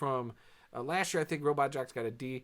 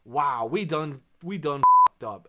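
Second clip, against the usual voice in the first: mock loud dismay; 2 semitones higher, 12 dB louder than usual. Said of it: "and then they go".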